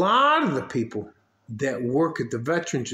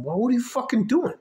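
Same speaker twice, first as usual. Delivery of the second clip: exasperated retort; 10 semitones higher, faster than usual. Retold or imitated. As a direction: throw the question back at them, fed up. Acted quarrel with raters.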